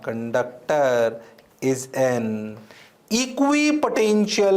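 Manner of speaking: "conductor" spoken very slowly and low; slow, deliberate. Shown as a demonstration. Teacher repeating the key word slowly for students. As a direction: lay "conductor" out slowly again. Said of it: "ध्यान से सुनना".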